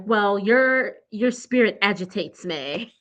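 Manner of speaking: a hint of Valley Girl attempting English; lightly put-on English accent slipping into Valley Girl; botched Valley Girl-English accent. Tia tells Stacy off, in muddled Valley Girl-English accent. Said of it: "like a Valley Girl accent trying to be English accent".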